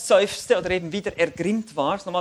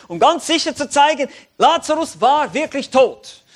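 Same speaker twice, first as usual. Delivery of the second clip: laut und hoch verkündet; kräftige Verkündigung; 9 semitones higher, 9 dB louder than usual. Acted. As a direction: ruf die Gewissheit laut aus. Preacher proclaims climax. (der Prediger verkündet laut das Wunder)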